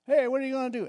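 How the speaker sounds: high-pitched, imitated nosy question; pestering questioner. Grown-ups quizzing a youngster about the future, mock pestering. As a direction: pipe up as someone always asking. Imitating people's constant asking.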